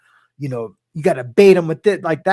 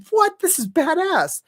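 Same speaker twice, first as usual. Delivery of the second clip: much higher, slow, thrilled; super excited; 12 semitones higher than usual. Retold or imitated. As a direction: relive the thrill of new subscribers. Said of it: "I was super excited".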